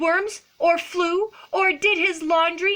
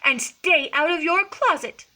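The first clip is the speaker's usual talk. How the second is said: loud, emphatic mock scolding; stern lecturing; 7 semitones higher, 5 dB louder than usual. A narrator's reading. Mama cat lectures Skippy in his room, acted stern. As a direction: lecture the kitten like a cross mother. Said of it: "The lecture went on and on".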